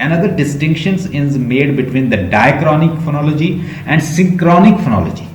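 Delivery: slowly dictating a textbook definition; slow dictation. Acted. Teacher dictates definitions for students to copy down, slowly. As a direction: read each phrase out slowly for notes.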